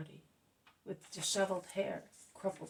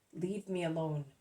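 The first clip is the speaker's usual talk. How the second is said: a lower, louder curt brush-off; lightly voiced rude Judas; rudely; 3 semitones lower, 4 dB louder than usual. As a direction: snap it at her, lightly rude. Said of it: "says Judas rudely".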